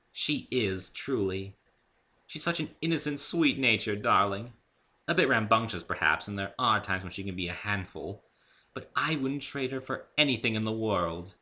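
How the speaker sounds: gentle. Acted. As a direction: speak gently about a little sister. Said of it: "Rarity smiled gently".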